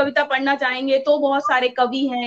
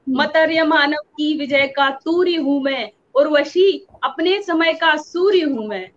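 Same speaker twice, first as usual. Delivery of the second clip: slow, measured recital of verse; reciting her favourite Dinkar lines with reverence; poem recitation. Retold or imitated. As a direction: savour each line of the poem. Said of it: "Dinkar की तो पंक्तियां, मुझे बहुत पसंद है".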